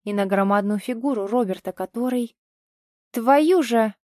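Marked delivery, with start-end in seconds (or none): 3.1-3.9 loud burst of a curse; cursing as she runs; shouted curse. Acted. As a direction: spit out the curse loudly. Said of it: "выкрикнула Дарина".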